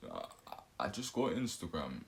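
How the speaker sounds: stammered start in a mock Batman voice; put-on deep voice. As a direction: fake a deep voice, hesitantly. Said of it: "I'm talking with a deep voice".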